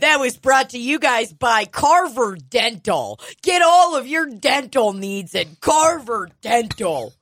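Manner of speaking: slow, salesy sponsor read. Pretend. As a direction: sell it like a radio spot. Reading a fake ad.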